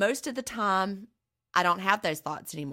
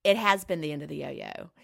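fighting back tears, louder; choking up with emotion; 3 semitones higher, 6 dB louder than usual. Real, not acted. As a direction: voice tight with real emotion. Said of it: "I'm choking up".

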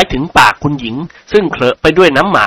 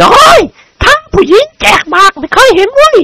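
high, louder furious outburst; livid; 4 dB louder than usual. A narrator's reading. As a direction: burst out livid with rage. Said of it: "โกรธจนหน้าเขียว". (โกรธจนหน้าเขียว ตวาด)

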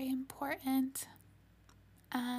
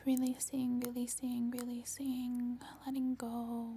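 whispered meditation. Acted. Meditation guidance.

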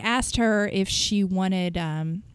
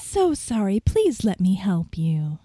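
syrupy sweet; 2 semitones lower than usual. Shown as a demonstration. Manager showing how they soothed the caller, syrupy sweet. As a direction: coo it with fake sweetness, drawing out the end. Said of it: "Did I just get that syrupy sweet?".

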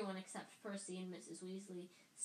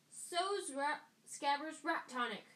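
loud; 6 semitones higher, 6 dB louder than usual. A narrator's reading. Ron searching frantically.

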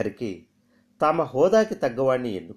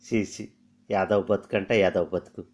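cursing herself. Acted. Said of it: "తనను తన్నే తిట్టుకుంది".

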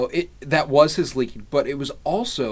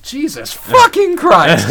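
slow, drawn-out shouted curse, much higher and louder; yelled curse; 11 semitones higher, 12 dB louder, slower than usual. Retold or imitated. Elliot yelling at the cross, slow furious shout. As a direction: bellow it up at the cross. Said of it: "he yelled that at the cross".

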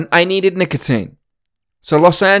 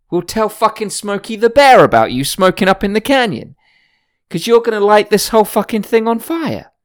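put-on raised, louder whiny Valley Girl tattling; mocking the hikers; 7 semitones higher, 3 dB louder than usual. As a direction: ham up the snitchy LA hikers threatening to report you. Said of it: "And they were saying".

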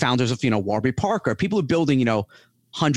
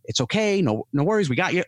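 mildly higher, light reassuring customer-service voice; reassuring reply; 4 semitones higher than usual. Retold or imitated. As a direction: soothe an upset customer, lifted pitch. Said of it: "I'm gonna say".

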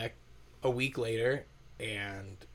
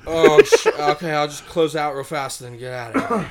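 louder, hurried flustered apology; flustered panic; 12 dB louder than usual. Retold or imitated. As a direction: act caught out and scrambling to leave. Guy caught pissing his pants again.

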